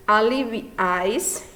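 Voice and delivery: aliviais said slowly, syllable by syllable; slow spelled-out word. Shown as a demonstration. Teacher reading a tritongo example for the students, slow. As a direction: draw out aliviais for the class. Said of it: "reading example word".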